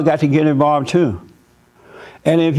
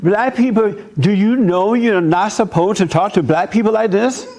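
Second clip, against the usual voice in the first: raised, high-pitched indignant challenge; indignant confrontation; 5 semitones higher than usual. Retold or imitated. Confronting teen protesters, high indignant retort. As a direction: demand answers, voice pitched way up. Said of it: "I'm like".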